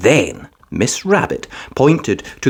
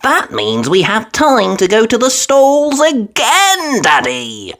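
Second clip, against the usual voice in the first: put-on high, bright little piglet girl; Peppa voice; 9 semitones higher, slower than usual. A narrator's reading. Narrator reading Peppa to Daddy, high little girl voice. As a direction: lift the voice up into a small eager girl.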